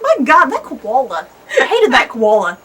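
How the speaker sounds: laughing through a mock rant about the koala; real laughter while complaining. Real, not acted.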